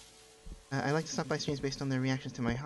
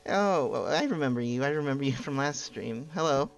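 whispered asmr role play; 5 dB louder than usual. Acted. Reads visitor's ASMR roleplay lines.

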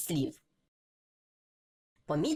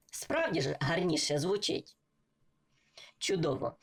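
ordinary delivery

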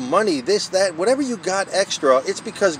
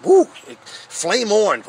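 excited whoop; 5 semitones higher, 4 dB louder, slower than usual. Real, not acted. Firing up after the Word.

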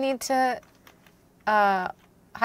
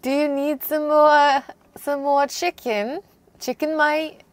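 mock Australian accent, pitched up; playful Aussie lilt, higher; 4 semitones higher than usual. Offering a co-player food in a mock Australian accent. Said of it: "this is the Australian accent".

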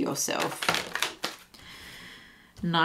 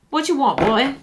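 higher, cheeky self-assured challenge; sassy challenge; 5 semitones higher than usual. Acted. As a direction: play it cocky, on the edge of laughter. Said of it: "it's that energy of like".

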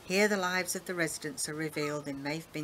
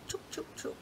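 whispered, much softer, coaxing hens; 6 dB quieter than usual. Acted. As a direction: whisper gently to the chickens. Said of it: "smoothly into the feathers".

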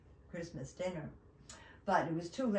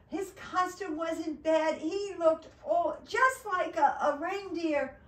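high, loud, slow storybook narration; drawn-out, delighted build-up; excited build-up; 9 semitones higher, 6 dB louder than usual. A narrator's reading. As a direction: sell the disguise with big enthusiasm. Building up the disguise before letdown.

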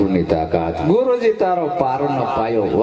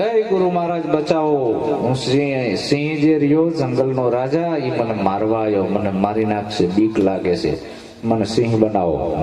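frightened dog pleading. Acted. Dog begs guru, lion chasing. (ડરેલા કૂતરાની આજીજી)

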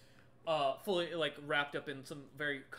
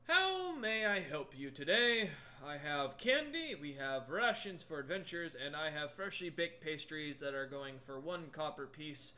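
lightly voiced troll shopkeeper; 3 dB louder than usual. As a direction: greet customers as a polite troll, settling toward a natural voice. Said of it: "the troll looks over each of you".

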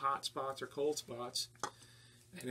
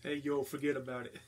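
put-on Jersey accent. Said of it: "That was pretty good".

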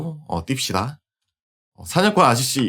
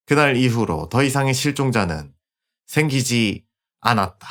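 story narration. A narrator's reading. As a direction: tell the ending like a fable. Epilogue narration.

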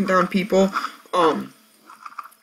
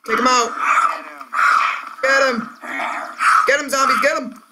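hyped gamer bro; 8 semitones higher than usual. Real, not acted. Urging zombies on.

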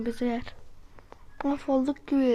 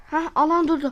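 relieved gasp; 3 semitones higher, 6 dB louder than usual. Real, not acted. Zone stops, relief.

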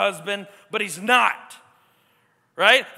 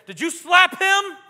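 stern question; 9 semitones higher, 11 dB louder, slower than usual. Acted. Adult questioning child.

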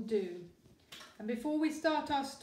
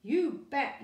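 put-on higher, louder child's yell; eager yell; 3 semitones higher, 5 dB louder than usual. A narrator's reading. Son answering dad, eager yell. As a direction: shout it back keenly like a boy. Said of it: "yelled Lester".

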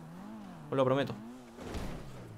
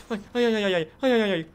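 mock wailing; 4 semitones higher, 5 dB louder than usual. Warming up mock opera voice.

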